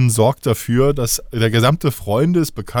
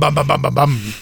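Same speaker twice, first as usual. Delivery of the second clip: repeating the bam. Retold or imitated. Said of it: "spätestens beim Bam".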